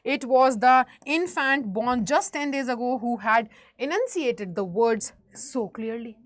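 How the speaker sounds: slow, deliberate read-aloud; teacher reading a story passage slowly to the class. Acted. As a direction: read the book line slowly, word by word. Reads English story text aloud.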